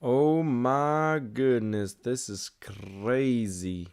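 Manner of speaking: slow, drawn-out, fading to soft; slowly shaking off the shock; quiet, amazed disbelief; stunned awe. Real, not acted. Stunned after the match moment.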